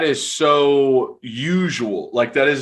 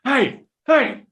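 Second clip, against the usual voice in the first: very high, loud mock yelling out a car window; hammed-up high-pitched hollering at a stranger; crazy person yelling; 6 dB louder than usual. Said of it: "you definitely do seem like a crazy person yelling".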